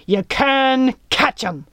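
high, slow pirate captain's bellow. A narrator's reading. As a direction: bellow back, stretching the words. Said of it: "bellowed Little Jack".

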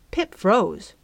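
usual speaking voice

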